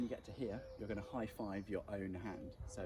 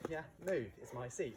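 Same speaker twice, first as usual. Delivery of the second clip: angry; 5 semitones higher than usual. Acted. Staged quarrel over seat.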